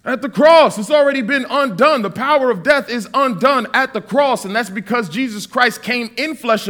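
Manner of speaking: rising preacher's declaration; preaching climax. Acted. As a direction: proclaim it with fire.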